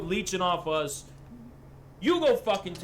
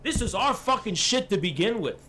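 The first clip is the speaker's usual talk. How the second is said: imitating Hassan ranting. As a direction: keep hammering the point in a mock tirade. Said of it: "He'd be like, Hey".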